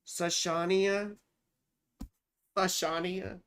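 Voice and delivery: "Sashania" sounded out slowly as sa-SHAH-nee-uh; careful name attempt. Shown as a demonstration. Host trying a client's name, "Sashania" as sa-SHAH-nee-uh. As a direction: try "Sashania" tentatively, SHAH stressed. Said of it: "hear me try and pronounce".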